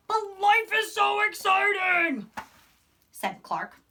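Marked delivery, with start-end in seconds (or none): 0.1-2.3 high, slow, eager protest; excited. A narrator's reading. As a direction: plead with wide-eyed joy.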